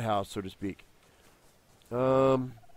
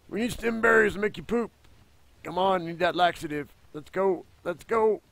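high pet coaxing; 6 semitones higher than usual. Acted. Baby-talking to pet dino.

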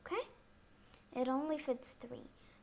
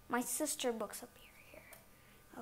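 whisper to self; 2 semitones lower, 6 dB quieter than usual. Real, not acted.

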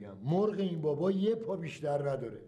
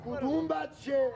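shocked disbelief; 8 semitones higher than usual. Acted. Husband accused by strange woman.

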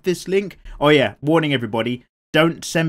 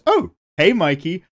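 higher, louder hammed-up hello; mock movie greeting; 5 semitones higher, 5 dB louder than usual. Shown as a demonstration. Rereading a viewer comment, a hammed-up louder hello. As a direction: greet Mikey like a bad film line. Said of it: "right in the middle it just goes".

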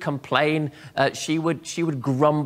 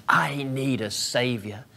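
whispered, slow admission; whispered prayer of confession; humble whisper; slower than usual. Pretend.

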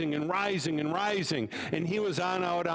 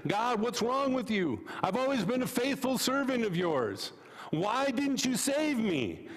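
higher, aggrieved complaint; indignant rabbi; 5 semitones higher than usual. Acted. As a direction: demand an answer from God. Rabbi complains at pearly gates.

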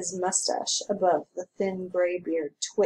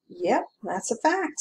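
relieved; 4 semitones higher than usual. Acted. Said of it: "with evident relief".

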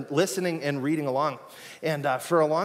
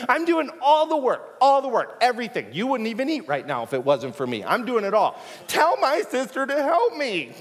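whiny tattletale; 7 semitones higher than usual. Retold or imitated. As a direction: whine like a tattling sister. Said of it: "She literally was a tattletale".

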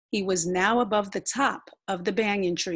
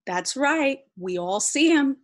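louder, lifted chorus line; loud and proud; 6 semitones higher, 4 dB louder than usual. A narrator's reading. Animals back up Shade, mildly loud and proud. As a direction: pipe up with mild pride. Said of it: "loud and proud".

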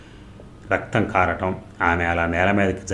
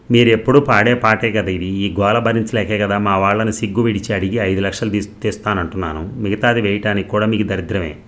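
raised voice; 4 dB louder than usual. Acted. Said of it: "అని voice పెంచింది".

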